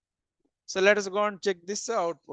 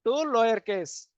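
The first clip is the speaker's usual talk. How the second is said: slow dictation; slower than usual. Shown as a demonstration. Teacher dictating the method name slowly. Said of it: "You can convert into".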